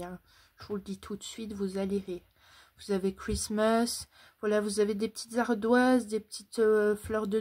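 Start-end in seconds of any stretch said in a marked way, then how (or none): 3.1-4.1 "Christmas" dit à l'anglaise, avec un accent français; accent anglais hésitant. Real, not acted. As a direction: tente l'anglais sur "Christmas", sans trop y croire. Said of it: "j'ai pas un très bon accent, euh, anglais". ("Christmas" à l'anglaise, avec un accent français)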